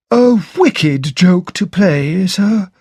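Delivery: slow, high, shocked servant's voice; shocked butler. Acted. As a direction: let the shock slow the words. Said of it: "in a shocked voice".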